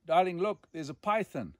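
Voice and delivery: retelling his wife calling out that a python is in the house; alarmed call. Retold or imitated. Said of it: "Katja said to me".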